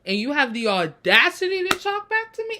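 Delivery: indignant god, rising high on audacity; mock outrage. Host retells Zeus rebuking Percy, mock outrage. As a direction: act out an offended, disbelieving ruler. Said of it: "Zeus was not having it".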